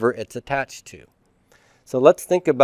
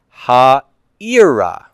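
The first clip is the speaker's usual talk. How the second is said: Ha'ira said a bit louder, with the final a left unstressed; unstressed ending; 5 dB louder than usual. Shown as a demonstration. Teacher modelling the unstressed directive ending on Ha'ira. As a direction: keep the stress off the last a of Ha'ira.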